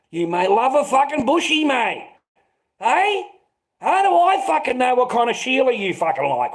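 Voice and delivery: worked-up rant. Real, not acted. Ranting about Sheilas, heated.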